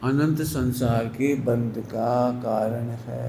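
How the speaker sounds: slow repeat with अनंत weighted; slow emphatic restatement to the listeners; slow, deliberate repeat. Shown as a demonstration. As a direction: spell it out slowly so it sinks in. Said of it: "ये बिल्कुल धीरे धीरे बोल रहा हूँ".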